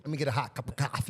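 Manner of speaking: fast, a touch of New York accent on "coffee". Shown as a demonstration. Asked to say it normal, fast New York accent order. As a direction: order it like a quick New Yorker saying "coffee". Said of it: "How do you say coffee normal?".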